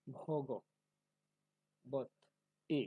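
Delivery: ভগ, বত, এ said as separate syllables; syllables apart. Shown as a demonstration. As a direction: split it, ভগ pause বত pause এ. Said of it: "এখন ভেঙে দিয়েছি". (আলাদা আলাদা করে ভগ বত এ)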